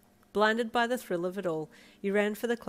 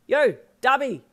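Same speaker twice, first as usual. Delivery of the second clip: loud taunting holler, pitched up; 7 semitones higher, 11 dB louder than usual. Acted. Sedano taunting Darby from his car window, loud holler. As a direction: holler out the window to rile him. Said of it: "Sedano hollered".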